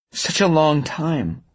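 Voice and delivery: high, slow, drawn-out murmur; wistful murmur. A narrator's reading. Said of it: "Avery murmured".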